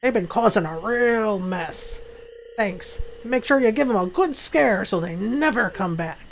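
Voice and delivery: lightly voiced grumpy old man; old man game character. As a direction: read it as an old man asking a favor.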